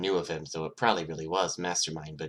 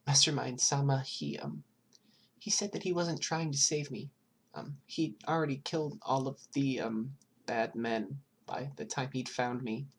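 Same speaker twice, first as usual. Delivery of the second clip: put-on high, timid small child voice; scared child answering a detective, high and hesitant; little girl voice; 8 semitones higher, 3 dB quieter than usual. Eri explains rescue.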